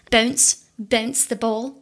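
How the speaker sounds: light mock Scottish accent, rising at the end. Host joking on a podcast, mock Scottish accent. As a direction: try a playful Scottish voice. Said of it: "Oh, you're doing your Scottish accent".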